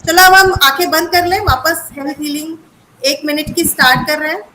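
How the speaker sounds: guided healing meditation. Acted. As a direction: ease everyone into the healing. (शांत ध्यान कराने वाली आवाज़)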